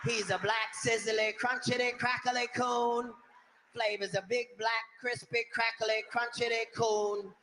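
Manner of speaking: lightly hammed-up roast comic; reading the racist roast lines with relish; mock roast joke. Comic mocking the script's roast jokes, lightly hammed. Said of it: "every other word was".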